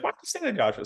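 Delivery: mock his mother's tut-tut; imitating his mom. Son mimics his mother scolding him, high-pitched. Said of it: "she's like".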